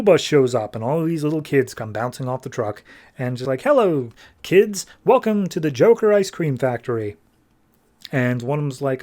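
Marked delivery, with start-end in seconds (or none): 3.6-7.2 sugary greeting. Retold or imitated. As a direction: lure the children in with a sweet hostess voice. Villain greets arriving school kids.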